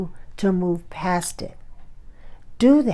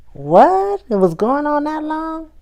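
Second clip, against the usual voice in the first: high, loud what; mock surprise; 9 semitones higher, 5 dB louder than usual. On the phone hearing the party ran late, mock surprise. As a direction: gasp at the news, a bit hammed-up.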